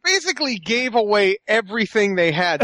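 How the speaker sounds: talking through a laugh; real laughter under the words; amused. Real, not acted. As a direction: chuckle while summing up their failure.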